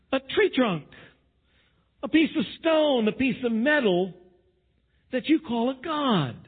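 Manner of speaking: a wounded, pleading God, mildly voiced. Preacher voicing God rebuking his unfaithful people, indignant. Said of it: "it's God saying again".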